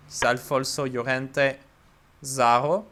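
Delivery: put-on name said in a light Spanish accent. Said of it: "Trying to speak with a Spanish accent".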